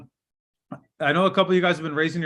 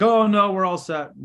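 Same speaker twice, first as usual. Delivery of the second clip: quick objection, higher and louder at the start; mock brush-off; 4 semitones higher, 4 dB louder than usual. Prospect turning down an agent who paused, mock brush-off. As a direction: imitate a prospect brushing off the caller.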